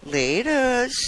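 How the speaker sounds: mildly teasing, with a rising lilt; light, sing-song tease. Acted. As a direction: draw it out playfully to tease. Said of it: "with a tease in my voice".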